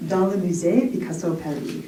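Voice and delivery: self-mocking French accent, a bit fast; crappy French accent. Shown as a demonstration. Poet announcing her poem title in a self-mocking French accent. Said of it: "in my really crappy French accent".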